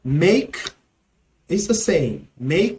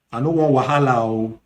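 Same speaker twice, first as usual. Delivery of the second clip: Nigerian Pidgin; 4 semitones lower, much faster than usual. Shown as a demonstration. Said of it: "In Nigerian Pidgin".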